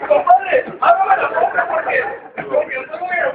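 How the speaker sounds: grito muy agudo y fuerte, exigiendo. Acted. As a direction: aporrea con la voz, agudísimo. Compadre furioso gritando en puerta. (el compadre exige a gritos que le abran)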